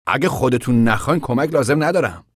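a proud stranger refusing help; voiced character. Floyd speaking in story. (صدای شخصیت، بلندتر و زیرتر)

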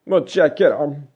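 put-on slow, high, tearful boy; tearful thanks. A narrator's reading. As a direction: thank them slowly, holding back tears. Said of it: "گریست و گریست".

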